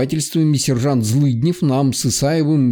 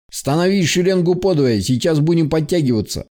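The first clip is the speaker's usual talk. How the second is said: commands between uneven breaths. Acted. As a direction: swallow words, short of breath. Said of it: "дышал неровно, глотая слова".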